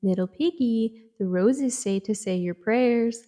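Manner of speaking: lightly creepy, slowing sing-song taunt. Acted. Creepy voice combing through her hair, lightly eerie. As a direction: put on a mildly creepy voice, drawing it out. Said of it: "there's a creepy voice saying".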